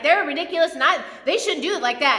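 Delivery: mildly worked-up mock rant; retold indignation. Preacher retelling gossip behind people's backs, mildly indignant. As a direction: imitate yourself complaining, a touch indignant. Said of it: "and I get all mad".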